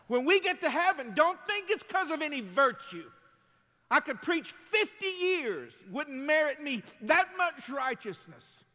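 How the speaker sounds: loud, high, slowed and hammered; full-force preaching. Acted.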